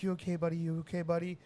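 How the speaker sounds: put-on high, urgent check on a hurt kid; worried dad. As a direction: call out to the boy in alarm.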